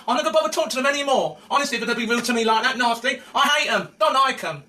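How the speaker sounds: quick, sharp outburst; fast angry rant. Real, not acted. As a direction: vent the grudge fast. Ranting about rude glamour girls.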